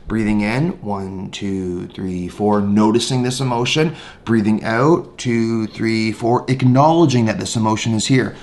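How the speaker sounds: guided breathing. Shown as a demonstration. Teacher leading the noting practice for homework. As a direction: model the practice calmly. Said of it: "try the formal practice of noting emotions".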